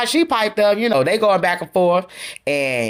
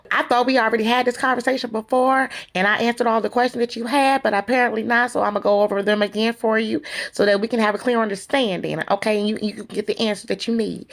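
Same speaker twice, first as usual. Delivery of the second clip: condescending; 3 semitones higher than usual. Retold or imitated. Retelling Melody's answer to Destiny about questions already answered, condescending. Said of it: "it was in a condescending tone".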